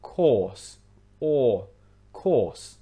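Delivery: course with long or, no R; long vowel. Shown as a demonstration. Teacher isolating the long vowel, or in course. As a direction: draw out or in course, R silent. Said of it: "that vowel sound is quite long".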